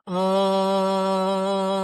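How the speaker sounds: a strong buzzing ah while massaging. Shown as a demonstration. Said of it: "make some sound".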